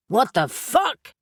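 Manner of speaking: startled yell; soaked warrior yelling in shock; yelled back. A narrator's reading. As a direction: shout back, bewildered. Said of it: "Neil yelled back".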